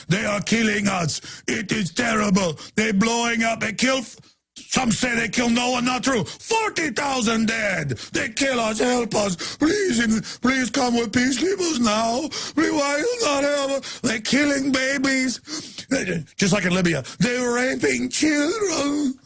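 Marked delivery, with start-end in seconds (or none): 0.1-15.4 hammed-up fake Arabic accent, high and pleading. Radio host mocking a staged CNN witness, hammed-up fake Arabic accent. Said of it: "the fake, uh, Arabic accent". 17.2-19.1 hammed-up fake Arabic accent, high and pleading. Radio host mocking a staged CNN witness, hammed-up fake Arabic accent. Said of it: "the fake, uh, Arabic accent".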